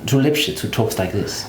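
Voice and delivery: German-British hybrid accent; German accent polished by British schooling; marry British and German accents; Lipschitz. Shown as a demonstration. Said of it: "the Lipschitz accent".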